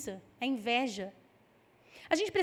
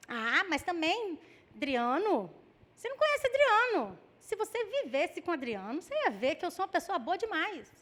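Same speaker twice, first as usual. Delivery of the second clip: mild mock complaint about a husband; mock excuse; 3 semitones higher than usual. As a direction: plead your own goodness, hammed-up a little.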